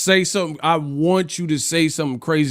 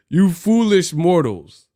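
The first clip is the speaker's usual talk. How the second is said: slow, raised mock villain voice; dark lord; 5 semitones higher, 4 dB louder, slower than usual. Mock villain address to haters.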